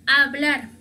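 hablar begun straight on the vowel, "ablar"; silent H. Shown as a demonstration. Teacher models the word for learners, hablar with silent H. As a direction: say hablar with no breath before the a. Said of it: "no tiene sonido".

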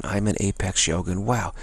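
soft mantra. Shown as a demonstration. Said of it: "You just focus on".

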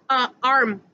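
"uh" set apart before the whole word "arm"; first sound isolated. Shown as a demonstration. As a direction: sound out the start, "uh", then say "arm". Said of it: "What about the word".

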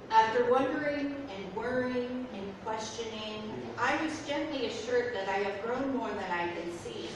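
calm, measured spoken-word reading; poem reading. Acted. Poet reading her poem to the audience, calm spoken-word style. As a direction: read it reflectively, line by line.

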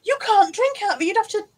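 laughing. Real, not acted. Still laughing at mug.

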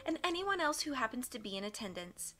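stern judge. Acted. Judge voice held in narration.

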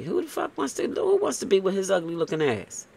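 high mocking disbelief; incredulous scoff. Real, not acted. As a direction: pitch jumps way up in disbelief. Reader scoffs at the ex.

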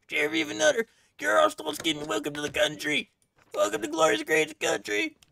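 very high, loud, hammed-up cheering; over-the-top excited welcome. Guard greeting a sheriff at the border, hammed-up excitement. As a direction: squeal a star-struck welcome at full tilt.

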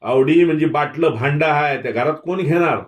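high, loud angry tirade; screeched outburst. A narrator's reading. Avdi's in-law screaming at Dhanaji to stay out of it, high loud outburst. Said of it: "आवडीचा धीर किंचाळला".

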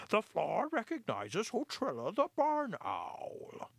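breathy hushed formal call; the old mouse handing the floor to the owl; unhesitating. Acted. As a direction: announce promptly yet hushed. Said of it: "said unhesitatingly".

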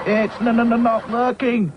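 high stammer on the n; stuttering. A narrator's reading. Hi-Fi stammers that the engine won't start. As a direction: splutter through the stuck consonant. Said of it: "spluttered Hi-Fi".

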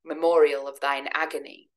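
slow, measured recital of verse; poem reading. Acted. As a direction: read the lines like a dark poem. Reads Byron's vampire poem aloud.

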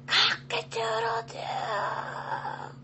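slow, breathy crow with no voice; a rooster who has lost his voice; stretched, airy cock-a-doodle-doo; hoarse rooster crow. Acted. Rooster trying to wake farmer.

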